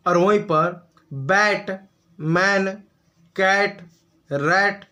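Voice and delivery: बैट, मैन, कैट, रैट each said slowly with an open ऐ vowel; vowel demo words. Shown as a demonstration. Teacher listing example words to students, slow and careful. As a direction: lay out the example words one by one for the class. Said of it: "इसको आप ए की मात्रा पढ़ रहे हैं".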